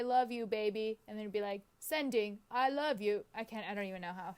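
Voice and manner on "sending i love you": attempted Australian accent of a voice assistant; put-on assistant voice, badly faked Australian accent; Siri with Australian accent. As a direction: imitate an Australian-accented assistant reading back a message. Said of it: "do an impression of him".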